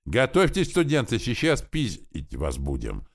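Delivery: loud pleased menacing shout; gleeful shout. A narrator's reading. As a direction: relish the threat, bully shouting at students. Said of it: "довольно закричал крупный рослый парень".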